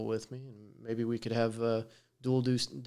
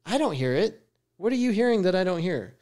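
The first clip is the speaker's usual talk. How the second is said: incredulous; 7 semitones higher, 6 dB louder than usual. Retold or imitated. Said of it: "And I'd be like".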